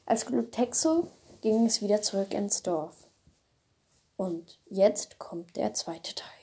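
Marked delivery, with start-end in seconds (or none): 4.2-6.3 whispered aside to the listener; slow hushed whisper announcing the next part. Real, not acted. Telling the audience the second part starts, whispered.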